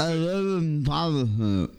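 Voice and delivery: tongue held, garbled words; holding tongue with fingers. Pretend. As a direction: talk while pinching your tongue. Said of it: "hold your tongue".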